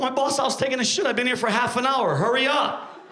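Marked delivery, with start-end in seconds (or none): 2.2-3.0 impatient urging. Acted. Customer urging staff, first take.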